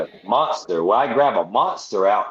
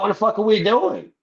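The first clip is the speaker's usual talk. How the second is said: alarmed protest; 10 semitones higher than usual. Retold or imitated. Thrown against the wall by police.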